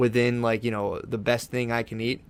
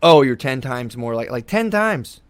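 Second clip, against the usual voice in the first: shocked realization; 5 dB louder, slower than usual. Retold or imitated. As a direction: let the number hit you. Shocked by the statistic.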